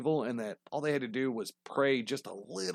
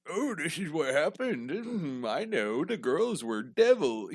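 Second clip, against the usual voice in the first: mock book author; 2 semitones higher, slower than usual. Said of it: "he wrote this book basically like".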